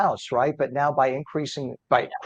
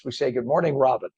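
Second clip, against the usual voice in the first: frog voice. Real, not acted. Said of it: "frog voice that I have today".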